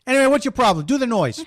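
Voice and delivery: car radio host. Acted. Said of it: "This is Click".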